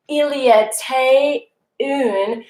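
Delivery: "Il y était une" said slowly in French; French phrase. Shown as a demonstration. Teacher modeling a French story opening slowly. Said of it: "being like".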